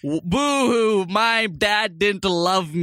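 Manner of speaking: fake crying. Mocking a singer's sad childhood.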